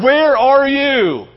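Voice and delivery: drawn out, slow and searching; slow call. Acted. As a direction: stretch each word like a call into the dark. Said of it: "God the entire time is looking at saying".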